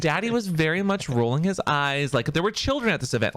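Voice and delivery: chuckling through the line; laughing. Real, not acted. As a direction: let the laugh break through. Repeats the line while laughing.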